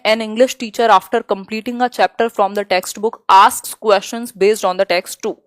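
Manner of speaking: slow, deliberate exam-question read. Acted. Teacher slowly reading the question to the class. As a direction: spell out each word for students.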